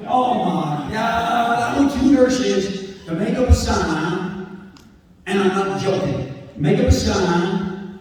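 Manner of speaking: a hint of a booming cop father ordering nurses; proud dad making the nurses spell it out; father demanding a sign. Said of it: "My father walked in and said".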